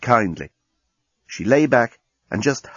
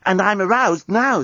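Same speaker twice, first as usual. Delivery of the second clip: alien man voice; 9 semitones higher than usual. Acted. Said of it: "said the journalist".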